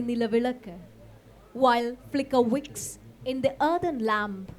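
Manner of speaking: measured poem recital with pauses between short phrases; poetry reading. Acted. Poet reads a poem on Zhu Zimo to an audience, measured recital. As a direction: recite it line by line, letting each phrase hang.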